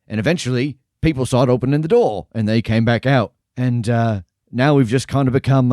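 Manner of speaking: lightly voiced jolly barkeep; a hint of a cheerful innkeeper; friendly tavern keeper.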